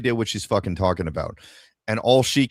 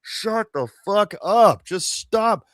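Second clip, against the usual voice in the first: exasperated; 9 semitones higher, much slower than usual. Retold or imitated. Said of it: "the level of frustration where I'm like".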